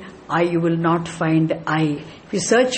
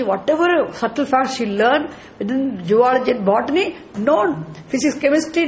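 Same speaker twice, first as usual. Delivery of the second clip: higher, insistent known after each item; rising fervor; 6 semitones higher than usual. Real, not acted. Teacher rousing students, everything is known. Lecture building up.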